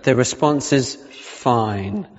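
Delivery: slow, prim "the response is 'fine'"; mock stern correction. Preacher reminding a friend of the rule, mock stern. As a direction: correct them like a stickler, slowly. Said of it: "So I had to remind them".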